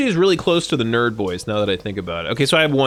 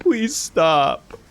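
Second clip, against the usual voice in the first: voicing chatter; 5 semitones higher than usual. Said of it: "Okay, Vicky, I'll stop".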